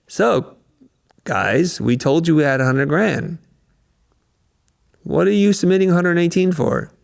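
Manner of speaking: a client annoyed at the inflated bid; upset client. Retold or imitated. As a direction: client on the phone complaining about the price. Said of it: "you could tell they're upset".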